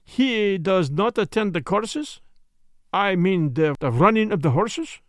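a hint of a precise, questioning Belgian sleuth; Poirot. Story figure, Belgian detective.

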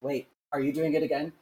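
a sister on the phone from Australia, fed up, scolding; exasperated sister. Retold or imitated. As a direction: play the sister ready to hang up. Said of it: "She's like".

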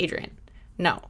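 soft whisper to herself; whispered self-talk. Retold or imitated. Host retelling her inner pep talk, whispered. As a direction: hush yourself like calming your own panic. Talking herself down when low.

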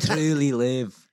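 slow, drawn-out Scottish accent; retry it in a careful Scottish accent; deliberate put-on Scottish accent. Shown as a demonstration. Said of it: "Try it again".

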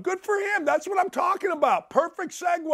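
high-pitched delighted shout; excited high outburst. Real, not acted. Host cheering on the coach, pitched high and excited.

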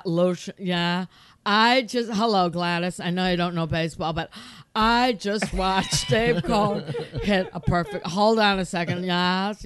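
loud, hammed-up announcing of momentous news; excited phone calls. Husband phoning friends about the perfect game, loud and overwrought. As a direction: imitate an overwhelmed fan, projecting into the phone.

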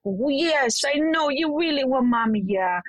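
put-on mirror the child's feeling in the voice; reassuring, echoing tone; soothing mimicry. Shown as a demonstration. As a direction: soothe a toddler who wants mommy. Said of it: "mimic the intonation of how it feels to them".

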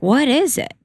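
confused. Retold or imitated. Daughter puzzled by mom's manifesting talk, confused. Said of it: "even more confused".

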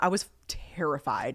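low, quiet, slow admission; grave, hushed understatement; hushed confession. Real, not acted. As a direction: drop the voice right down and draw it out. Dramatic confession, first take.

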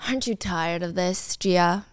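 menacing whisper. Retold or imitated.

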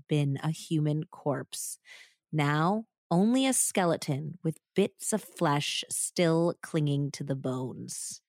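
measured, suspenseful true-crime telling; story narration. A narrator's reading. Host telling the murder story to her co-host, suspenseful narration.

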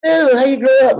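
high, loud nosy stranger asking; pushy nosy person. Retold or imitated. People at meetings prying loudly. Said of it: "People be like".

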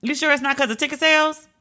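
high-pitched, doubting question; skeptical reaction. Retold or imitated. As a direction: question the excuse with a doubtful hum first. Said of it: "And I was like".

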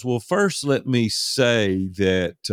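high start, then drawn-out words; deliberate, stalling lead-in; measured preamble. Retold or imitated. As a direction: stretch it out slowly before the point. Friend stalls before blunt rebuke.

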